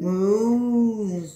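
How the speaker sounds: cow moo. Acted. Mom echoes cow sound.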